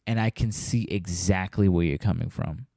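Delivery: soft, quick whisper to the listener; whispered aside. Real, not acted. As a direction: let them in on it under your breath. Aside to upset fans.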